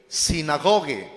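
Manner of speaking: "sinagoge" langzaam voorgezegd; Griekse uitspraak. Shown as a demonstration. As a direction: say "sinagoge" slowly as a Greek pronunciation demo. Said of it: "Así se pronuncia".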